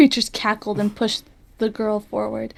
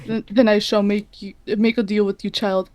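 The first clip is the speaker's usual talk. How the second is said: hissing demon voice. Acted. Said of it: "he hissed".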